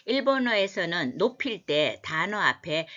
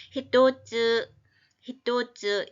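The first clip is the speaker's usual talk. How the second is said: reciting by rote; 4 semitones higher, 4 dB louder, slower than usual. Shown as a demonstration. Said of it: "teacher models Japanese word".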